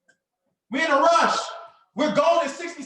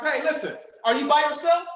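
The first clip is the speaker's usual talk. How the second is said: eager "are you by yourself", rising; hyped-up caller. Shown as a demonstration. Coach showing students an excited phone opener. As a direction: sound like you've got big news. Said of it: "You know what I'm telling my students".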